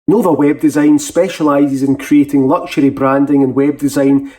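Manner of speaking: quick upbeat advert read; sponsor ad read. Acted. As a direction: sell the sponsor like a radio spot.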